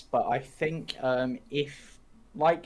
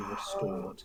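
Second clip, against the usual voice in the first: dramatic whisper; 2 semitones lower, 6 dB quieter than usual. Acted. GM reads an ominous curse.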